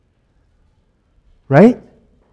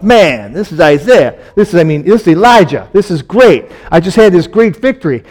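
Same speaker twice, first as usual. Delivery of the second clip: triumphant; 3 semitones higher, 4 dB louder than usual. Retold or imitated. Imagined triumphant inner thought.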